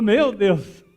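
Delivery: loud cry of awe at a huge obstacle; startled dismay. Retold or imitated. Woman facing a towering rock, startled cry. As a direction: exclaim it loudly, taken aback.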